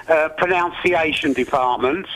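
pronunciation said as pro-NOUN-ciation; pronunciation with noun in the middle; mispronounced pronunciation. Acted. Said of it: "Do you not mean the pronunciation department?".

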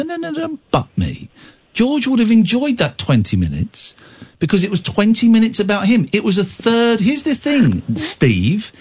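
slow, deliberate phrases with swooping high stresses; emphatic lecturing. Real, not acted. Host setting an annoyed caller straight about George, emphatic lecturing. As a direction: spell it out firmly, pitch climbing as you insist.

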